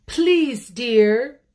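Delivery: high, loud sweet plea from the bear's wife; wife's voice. Acted. The bear's wife coaxing her husband, high and sweet. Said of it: "she said to him one day".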